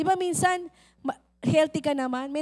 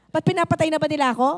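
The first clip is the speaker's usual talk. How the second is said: indignant mother; 2 semitones higher, 6 dB louder, much faster than usual. Acted.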